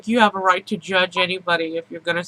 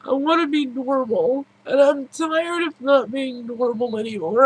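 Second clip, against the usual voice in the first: begging through tears; crying; 3 semitones higher than usual. Real, not acted. Pleading to be normal, crying.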